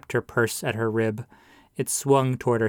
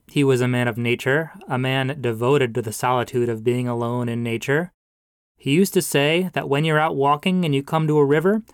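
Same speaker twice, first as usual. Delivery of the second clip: booming pastor. Acted. Pastor eulogizes a dead man to mourners, mildly booming. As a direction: preach the memory out to the pews. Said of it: "Pastor Blaine's voice boomed now".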